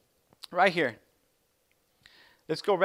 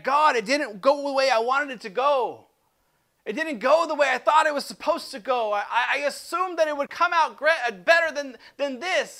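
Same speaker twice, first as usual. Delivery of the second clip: louder, higher, exasperated cry to God; frustrated complaint to God; 4 semitones higher, 5 dB louder than usual. Acted. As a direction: vent your disappointment at heaven. Frustrated prayer acted aloud.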